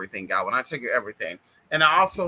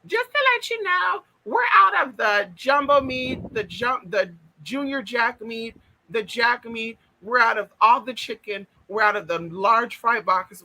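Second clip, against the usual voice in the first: drive-thru cashier voice; 4 semitones higher than usual. Retold or imitated. Vlogger retells the drive-thru worker, high put-on voice. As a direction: squeak out the apology like a weary worker. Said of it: "let me go there".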